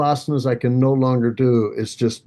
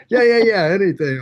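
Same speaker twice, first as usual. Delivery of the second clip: breezy doctor; 7 semitones higher, faster than usual. Retold or imitated. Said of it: "casually says".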